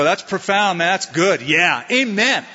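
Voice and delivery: mock-impressed nodding along; lightly hammed-up fake enthusiasm; fake agreement. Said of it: "nod my head and go".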